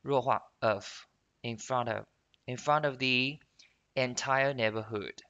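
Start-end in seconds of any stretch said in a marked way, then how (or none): 1.9-2.1 "of" reduced to an unstressed "uhv"; weakened "of". Shown as a demonstration. Teacher showing the weak form, reduced "of". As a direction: let the vowel of "of" shrink to a schwa. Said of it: "也是一样会进行一个".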